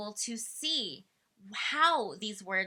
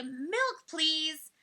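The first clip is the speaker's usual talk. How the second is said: put-on higher, polite request set out for the child to copy; modeling politely; 6 semitones higher than usual. Shown as a demonstration. Parent modeling a polite request, higher and gentle. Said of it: "You say".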